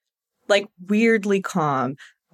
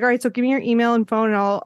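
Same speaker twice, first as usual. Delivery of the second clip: quick, breezy mimicry of him; retold quick talk; faster than usual. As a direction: rattle off the request like him. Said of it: "he said it so quickly".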